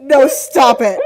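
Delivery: slow, loud, laughing plea; laughing protest. Real, not acted. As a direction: beg them to stop while cracking up.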